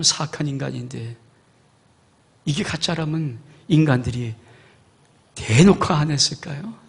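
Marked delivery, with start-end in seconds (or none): none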